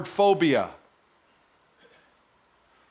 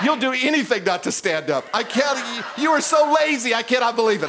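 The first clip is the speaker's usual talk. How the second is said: hammed-up raised shout at lazy listeners; mock scolding; 3 semitones higher than usual. A preacher teasing his congregation, mock shouting. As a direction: playfully yell at them.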